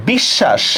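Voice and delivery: "বিশ্বাস" as bish-shash, শ held double; doubled consonant. Shown as a demonstration. Teacher shows learners doubling, "বিশ্বাস" as bish-shash. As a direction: say "বিশ্বাস" with a long sh and no ব. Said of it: "শটাকে দুইবার উচ্চারণ করি কিনা".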